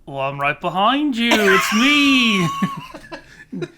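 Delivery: Denny. Acted. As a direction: do a hammed-up Liverpudlian accent. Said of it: "doing my Liverpudlian accent again".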